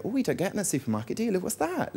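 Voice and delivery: soft, fast, curious mum voice; a hint of mum peering at vegetables; mum marvelling.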